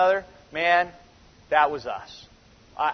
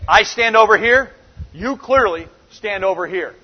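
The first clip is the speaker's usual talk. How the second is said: "I stand over here" louder, then "you clearly" set apart; emphatic contrast; 3 dB louder than usual. Retold or imitated. Jesus separating himself from his brothers, emphatic. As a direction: lean on "I" against "you clearly", pausing between. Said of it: "every phrase in Greek is emphatic".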